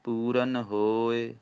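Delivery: slow ਪੂਰਨ ਹੋਏ, stopping after ਹੋਏ; teacher models the break; pause demo. Shown as a demonstration. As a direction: recite ਪੂਰਨ ਹੋਏ slowly, then pause. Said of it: "ਹੋਏ ਤੇ ਵਿਸਰਾਮ ਹੈ".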